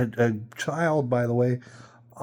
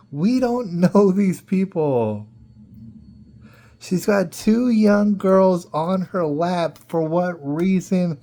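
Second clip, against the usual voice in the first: louder, slower, laughing through it; laughing disbelief; 3 semitones higher, 5 dB louder than usual. Real, not acted. Telling friends about the drunk stranger, laughing loudly. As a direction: crack up at the absurdity.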